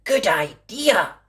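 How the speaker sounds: put-on high, childlike promise; little girl voice. A narrator's reading. Girl promising her mummy, high and earnest. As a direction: sound like a small girl promising. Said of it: "said Little Red Riding Hood".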